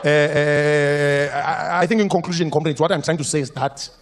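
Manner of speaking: lightly voiced long-winded comrade; mock-grandiose speech, meandering; pompous politician. Politician mocked to a room of comrades, lightly pompous. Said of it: "if you ever heard our politicians speak".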